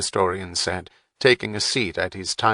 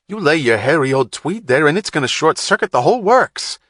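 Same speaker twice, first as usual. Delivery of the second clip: scornful tech, higher and louder; Wapner's voice; 7 semitones higher, 6 dB louder than usual. A narrator's reading. Wapner mocking Saint John's jacket, scornful raised voice. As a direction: sneer at the tweed jacket, raised voice.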